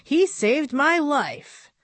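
mild breathless awe. Acted. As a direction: let it sink in, breath short. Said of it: "he said breathlessly".

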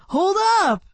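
high calling shout; yelled. Acted. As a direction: call it out after the running boy. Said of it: "Marcus yelled".

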